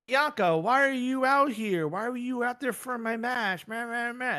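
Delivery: high, slow whining impression; mocking high whine; mock whiny Rhea. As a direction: mimic her complaining like a pouty kid. Mocking Rhea's whiny complaint.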